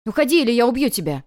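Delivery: put-on loud, childish threat; boy yelling a threat with a knife; angry threat. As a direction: shout the threat like a cornered boy.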